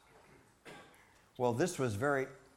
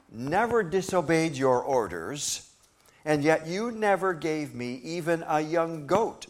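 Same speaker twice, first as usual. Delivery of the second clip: loud, higher, slow bitter complaint; resentful son; 4 semitones higher, 6 dB louder than usual. Acted. Older son complaining to his father, angry, loud and slow. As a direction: hammer out every grievance at the father. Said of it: "he answered his father".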